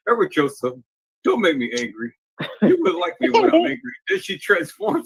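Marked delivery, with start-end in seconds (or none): 0.1-3.8 学狗说话的警告腔; snooty poodle voice. Retold or imitated. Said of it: "she said".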